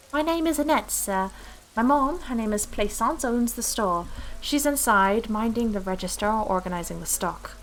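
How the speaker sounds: put-on little girl with a French accent; lightly attempted French accent, lilting introduction. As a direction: do your best French accent as a shopgirl. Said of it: "That's my best accent".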